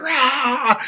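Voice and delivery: high put-on roar; mock roar. Coworker yelling at the terrified lady, mock roar. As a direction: growl it like a monster. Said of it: "yelling at her".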